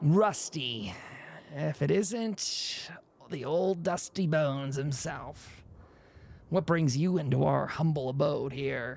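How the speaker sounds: ghoul-like character voice. Voicing Lugnut as he greets Rusty, in Lugnut's ghoul-like voice. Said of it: "He sounds similar to a ghoul bit".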